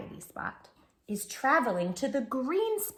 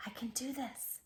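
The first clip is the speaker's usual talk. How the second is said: soft relieved sigh; 2 semitones higher, 12 dB quieter than usual. Shown as a demonstration. Modelling the calming breath.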